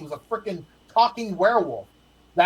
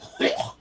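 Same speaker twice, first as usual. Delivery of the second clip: imitated newborn spit-up. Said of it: "you're just like".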